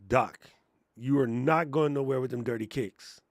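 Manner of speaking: low-pitched mock stern telling-off; imitated firm refusal. Voices Alicia forbidding dirty kicks.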